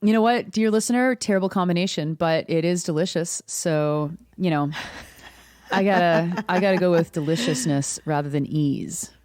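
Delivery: talking with a mouthful of peanut butter; words round a sticky mouthful; mouth full of peanut butter. Real, not acted. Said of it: "I got a mouthful of peanut butter".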